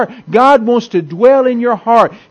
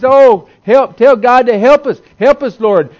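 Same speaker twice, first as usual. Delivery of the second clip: mild mock cry for help, a little raised; retold scream; 2 semitones higher, 3 dB louder than usual. People bitten by snakes beg Moses, mildly mock screaming. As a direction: imitate desperate pleading without a real scream. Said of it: "they come screaming to Moses".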